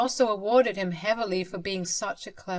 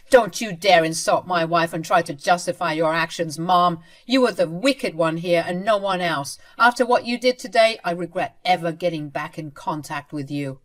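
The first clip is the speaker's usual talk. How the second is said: angry son; 6 dB louder than usual. Acted. Son scolding his mother.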